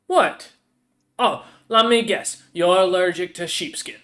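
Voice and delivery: lightly voiced troll lady, sharp and scornful; a hint of a sneering troll merchant; troll shopkeeper. Troll lady sneering at the customer's allergy. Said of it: "the troll lady looks at him and goes".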